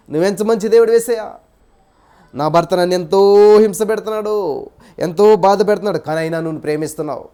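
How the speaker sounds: loud, pleading prayer to Jesus, climbing in waves; fervent prayer. Retold or imitated. Preacher voicing the kneeling wife's grateful prayer, fervent and loud. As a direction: pour it out to God with full force, never blaming. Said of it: "వెళ్ళింది, మోకరించింది".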